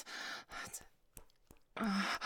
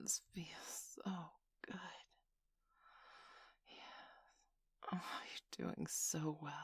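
intimate whisper. Acted. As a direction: whisper it right into the ear. Whispered intimate roleplay throughout.

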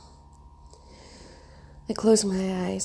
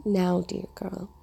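low gravelly voice; slower than usual. Acted. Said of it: "his voice was lower and gravelly".

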